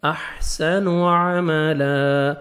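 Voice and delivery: احسن عملا very slow with a clear throaty عین; slow tajweed drill. Shown as a demonstration. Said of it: "عین پڑھیں گے".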